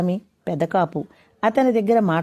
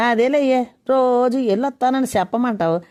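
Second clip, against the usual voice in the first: higher, teasing laugh; 5 semitones higher than usual. A narrator's reading. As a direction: laugh off the wife's fuss. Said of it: "అని నవ్వుతూ". (నవ్వుతూ సరదాగా)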